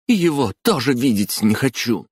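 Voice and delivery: высокий резкий выкрик; выкрикнуть с обидой; вскрик. A narrator's reading. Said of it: "вскрикнула Хатару". (вскрикнув, выше и громче)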